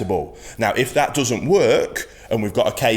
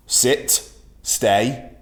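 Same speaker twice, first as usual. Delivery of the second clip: soft commands; 3 semitones higher than usual. Shown as a demonstration. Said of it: "I want you to go into a sit".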